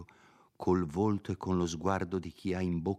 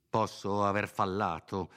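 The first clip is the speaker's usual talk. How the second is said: voce raddolcita. Acted. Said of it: "con voce raddolcita".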